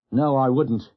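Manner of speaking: short, flat-out no; blunt refusal. Acted. Doctor refusing to hear the admiral's signal, blunt. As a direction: shut it down plainly. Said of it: "Brooks was very blunt".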